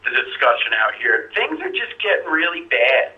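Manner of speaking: caller's voice through a phone line; over a landline phone. Real, not acted. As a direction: sound like a call on a landline. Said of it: "I'm on the landline".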